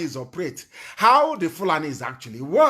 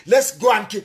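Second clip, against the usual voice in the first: mock shout; 3 semitones higher, 5 dB louder than usual. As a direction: shout it like a rallying call you despise. Mocking governors' call to kill.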